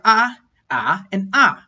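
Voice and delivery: three "ah"s, each on a different pitch contour; "ah" level, then "ah" rising, then "ah" falling; tone contour demonstration. Shown as a demonstration. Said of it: "first, second, and third tone categories".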